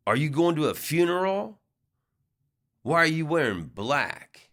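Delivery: lightly voiced mean woman needling a stranger; mean drunk woman. Drunk woman challenges comedian about his suit, lightly mock-mean. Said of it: "I could tell she was a little mean".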